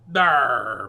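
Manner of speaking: loud pirate bellow; pirate bellowing in dismay. Acted. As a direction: bellow from the gut. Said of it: "bellowed the terrible".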